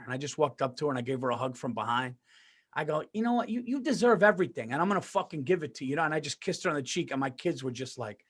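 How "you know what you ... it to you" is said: loving and tender. Retold or imitated. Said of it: "even when you're being loving and tender".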